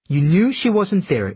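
high, insistent accusation; accusing. Acted. Kyuki confronts Jujak after the fruitless search, accusing. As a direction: press the accusation, pitched well up.

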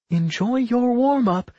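high-pitched, amused villain send-off; gleeful taunt. A narrator's reading. Rowan unleashing his army on Nat, gleefully taunting. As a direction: gloat with a grin, pitched right up. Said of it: "Rowan laughed".

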